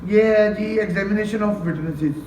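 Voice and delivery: slow, deliberate heading for the class; measured, unhurried announcement of the topic. Shown as a demonstration. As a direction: spell out the topic slowly like a dictation.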